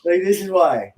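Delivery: high-pitched playful scolding; mock outrage. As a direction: pile on the fake indignation.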